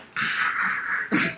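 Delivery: unvoiced snore imitation; imitated sleeping noise. Exhausted passenger asleep in an aisle seat, snoring. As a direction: mimic heavy sleep breathing without voice.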